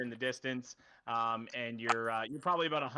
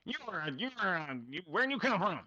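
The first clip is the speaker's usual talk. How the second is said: put-on confused old man; 4 semitones higher, faster than usual. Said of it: "turns back to you and goes".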